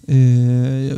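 ordinary talk

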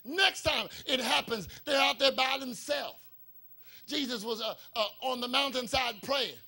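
emphatic, driving preacher delivery; preaching. Acted. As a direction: preach it out with rising force. Preaches at full force.

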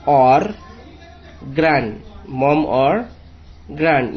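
very slow, with letters spelled out; slow reading and spelling. Shown as a demonstration. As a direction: spell and read slowly for the class. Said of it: "कैसे पढ़ना है आपको मैं समझाता हूँ". (धीरे-धीरे spelling के साथ पढ़ना)

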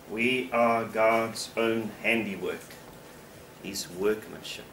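slow reflective repeat. Shown as a demonstration. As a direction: let the words sink in, gently. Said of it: "repeats the verse slowly".

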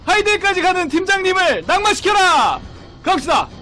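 loud, high mission announcement; rallying shout. Real, not acted. Host launching the chase on the team leader, rallying shout. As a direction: shout it like a battle order.

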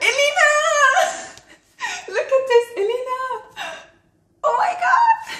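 very high, loud, giggly shrieks; ecstatic squealing. Real, not acted. Vlogger finding a gift for her friend, ecstatic squeals. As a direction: squeal with laughter, overjoyed for your friend.

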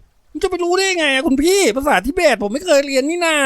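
put-on high, flustered boyish excuse; high-pitched alarmed explaining; panicked little boy. A narrator's reading. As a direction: plead ignorance like a scared kid. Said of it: "เด็กน้อยจอมยุ่งอธิบายหน้าตื่นปากคอสั่น".

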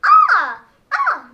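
high, loud Peach shriek; Peach scream. Shown as a demonstration. Kids demo Peach for the camera, high shriek. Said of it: "kind of like screaming".

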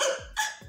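mock crying hiccups; imitated hiccups. Retelling her crying in the taxi, imitated hiccups. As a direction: hiccup as if after a long cry. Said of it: "like, I had hiccups".

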